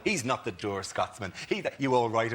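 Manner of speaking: slowly drawn-out Bush impression; slow mock Bush. Host retelling the press conference quote slowly. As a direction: drag the words out like Bush. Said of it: "did that whole".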